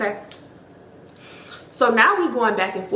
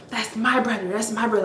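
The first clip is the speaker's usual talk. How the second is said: understated replay, leaning on "my" in "my brother"; stress on MY; 4 dB quieter than usual. Retold or imitated. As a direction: mimic her insistence on "my", held back. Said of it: "putting the emphasis".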